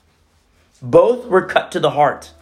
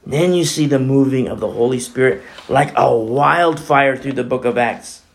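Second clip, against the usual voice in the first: ordinary talk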